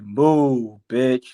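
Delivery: lightly voiced brusque shove-off; mildly mock the pushy DJ; hint of rude DJ. DJ pushes the comic off stage, lightly voiced rude order. DJ music cuts him off.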